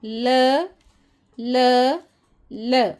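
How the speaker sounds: "ल" as a short bare l sound, not "el"; letter sound l. Shown as a demonstration. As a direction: sound out "ल" plainly, repeated. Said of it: "एल की आवाज़".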